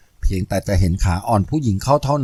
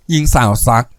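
usual speaking voice

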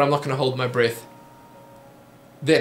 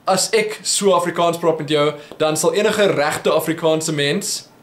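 English-accented Afrikaans. Shown as a demonstration. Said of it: "if I speak like that to you".

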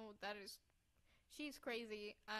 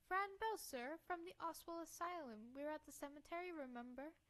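put-on eager girl; 5 semitones higher than usual. Girl reminds the doctor who she is, eager. Voices the girl introducing herself.

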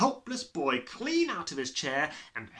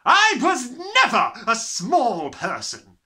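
loud, slow, higher retort; snapped; 10 semitones higher, 13 dB louder, slower than usual. Acted. Headmistress snapping at the boy. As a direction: snap it back. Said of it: "she snapped".

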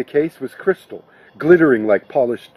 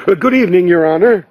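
beaming greeting, pitched higher; a host lighting up for His Honor; 4 semitones higher, 4 dB louder, faster than usual. A narrator's reading. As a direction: greet the guest with a big beaming lift. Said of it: "Rudy beamed".

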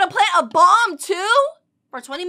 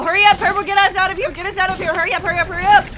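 raised, pressing, repeated pleas; urgent urging; 3 semitones higher, 3 dB louder, much faster than usual. Real, not acted. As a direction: urge a teammate to escape right now. Urging game character to escape.

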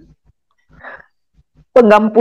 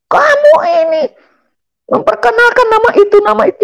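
high, indignant father voice; the father cries out in disbelief; father's shocked outburst; 14 semitones higher than usual. Retold or imitated. Father reacting to Jesus name. (ayah berseru tak percaya dengan suara tinggi)

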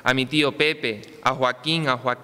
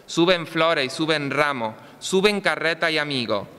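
town crier. Acted. Recited festival poem, pregón.

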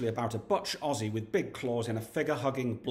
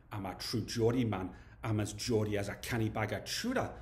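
put-on Geordie accent. True Geordie defends himself to his accuser, in a Geordie accent. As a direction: imitate a proud Geordie. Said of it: "That's not a bad accent".

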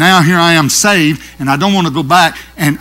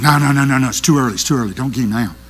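restraining devil; faster than usual. Acted. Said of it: "And one of them said".

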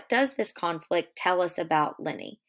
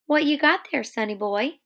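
lightly voiced brash woman, higher and louder; higher, louder, playful challenge; Curly's wife teasing; 6 semitones higher, 4 dB louder than usual. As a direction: pitch it up as a nosy, teasing greeting.

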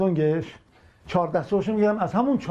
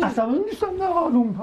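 insisting he's calm, voice raised and high; angry denial; 11 semitones higher than usual. Real, not acted. Husband denies to his wife he's angry, raised voice. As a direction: snap back that you're not angry. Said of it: "الان عصبانی".

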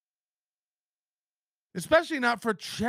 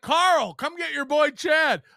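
mock call; 3 semitones higher, 4 dB louder than usual. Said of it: "It'd be like if I was like".

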